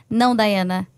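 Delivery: low, measured correction, voicing the Holy Spirit; sweet, gentle God. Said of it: "com aquela voz doce, mansa".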